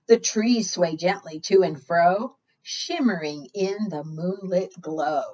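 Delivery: sing-song picture book reading; reading to children. Acted. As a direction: read the rhyme out to the little ones. Reads rhyming picture book aloud.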